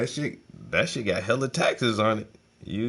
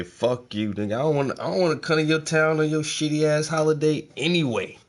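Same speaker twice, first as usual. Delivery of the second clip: imitating Trump; 6 semitones higher than usual. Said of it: "Trump say".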